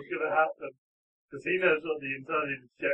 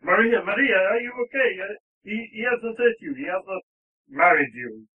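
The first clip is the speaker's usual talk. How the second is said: high, urgent, anxious lover; worried, raised-pitch questioning; worried rescuer; 6 semitones higher, 7 dB louder than usual. Acted. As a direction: rush in frantic to check on her.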